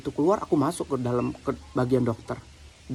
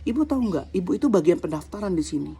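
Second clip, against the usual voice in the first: higher-pitched, worked-up scolding; retold indignation; 4 semitones higher than usual. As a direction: retell your own heated telling-off of the clerk. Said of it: "emosi banget gitu".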